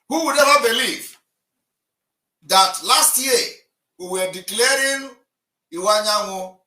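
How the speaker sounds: loud and high, astonished; incredulous shout. Real, not acted. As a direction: shout out the disbelief. Heated argument on live call-in.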